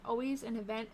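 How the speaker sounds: words stretched by a yawn. Real, not acted. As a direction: yawn through the line. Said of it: "I cannot stop yawning".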